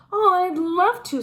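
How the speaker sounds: high, loud, thrilled yes; delighted. A narrator's reading. Arthur is offered a puppy, high thrilled reply. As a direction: burst out with joy at the gift.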